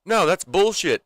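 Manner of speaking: high, indignant retort; Ricky. Retold or imitated. TV character talking back to the court, indignant. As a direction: imitate a defendant arguing back. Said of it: "He's like".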